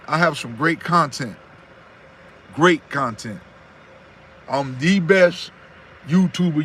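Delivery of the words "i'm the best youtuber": slow boast. Real, not acted. Boasting to his live chat viewers, slow and proud. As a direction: drawl out the boast with swagger.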